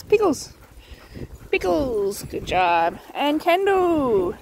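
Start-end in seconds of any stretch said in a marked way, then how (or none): 0.0-0.5 "Pickles" short and high, falling at the end; quick high call. Real, not acted. Calling a dog for a treat. 1.5-2.2 "Pickles" near normal pitch, slightly stretched. Real, not acted. Calling the same dog once more.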